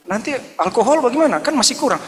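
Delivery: high, playful teasing pitch; high teasing lilt; mock teasing question. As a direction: tease him with a high sing-song. Teasing the drunk man.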